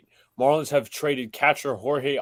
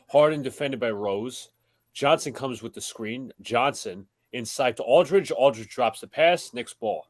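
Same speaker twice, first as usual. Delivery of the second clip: steady broadcast call of the game; live play-by-play; slower than usual. Acted. Host calling the Knicks-Nets game for the stream, play-by-play. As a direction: call the action as it happens.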